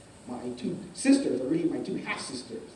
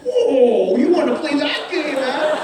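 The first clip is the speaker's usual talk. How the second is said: loud, higher, hammed-up protest; big comic outburst of alarm; mock alarm; 7 semitones higher, 8 dB louder, slower than usual. Boy reacting as dad comes after him, mock alarm. Acts out reaction to dad's swing.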